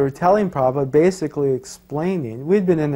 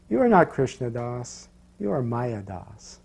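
slow, measured, a bit softer pronouncement; guru's verdict; 2 semitones lower, 4 dB quieter, slower than usual. Retold or imitated. Guru gravely rebuking disciple, slow and quiet. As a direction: let each word land slowly like a quiet judgment.

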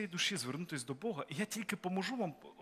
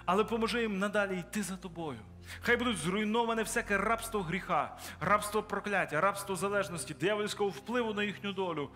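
preaching prayer; 2 semitones higher than usual. Acted. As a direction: pray over them with growing force. Pastor prays over converts.

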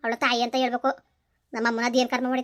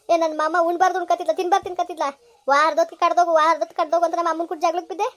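louder, blaming yell at her husband; furious shouting; 2 semitones higher, 4 dB louder than usual. Acted. Wife blaming her husband for her mother's death, shouting. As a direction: shout him down in rage. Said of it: "ನಿನ್ ಕೋಪ ಬಂದೈತೆ".

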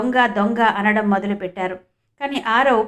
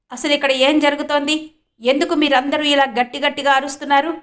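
a touch louder, higher bossy questioning; loud demand; 3 semitones higher than usual. Acted. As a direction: arrogant manager lightly raising his voice. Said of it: "అని గట్టిగా అడిగాడు". (అహంకారంతో కొంచెం గట్టిగా అడగడం)

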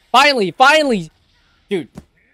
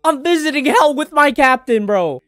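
imitating Zoro; 5 semitones higher than usual. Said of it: "Zoro really saying".

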